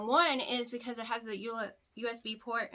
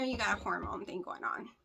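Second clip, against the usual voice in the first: whispering; 3 semitones lower, 6 dB quieter than usual. Real, not acted. Aside to viewers.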